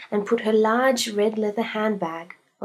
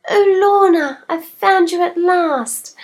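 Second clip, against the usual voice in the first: much higher, louder cry of delight; overjoyed; 10 semitones higher, 10 dB louder, slower than usual. Acted. Mrs Humphreys greeting her lost snake, overjoyed. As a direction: gush over the found pet.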